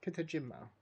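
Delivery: Kitajima in one go, falling at the end; tentative pronunciation. Real, not acted. Gamer settling on a character's name, Kitajima tentatively pronounced. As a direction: settle on Kitajima as a best guess. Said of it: "I think is how you pronounce that".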